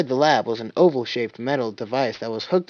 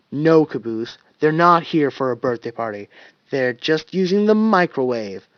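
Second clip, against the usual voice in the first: irritable; 4 dB louder than usual. Acted. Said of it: "Tucker replied irritably".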